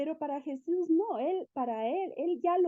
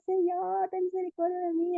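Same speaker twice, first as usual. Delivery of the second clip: mild mock cry for mercy, raised in pitch; imitated crying out; 5 semitones higher than usual. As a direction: plead like a blind beggar calling out, half-strength. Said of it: "El ciego gritaba y gritaba". (clamor imitado de un ciego, a media fuerza)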